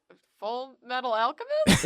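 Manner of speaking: unsure questioning title read. Shown as a demonstration. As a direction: ask it like a confused question. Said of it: "a questioning tone".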